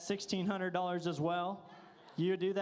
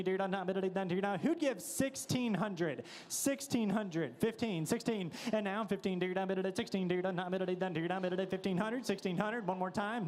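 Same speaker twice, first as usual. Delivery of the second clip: frantic trading floor shouting. Acted. Live auction bid calling.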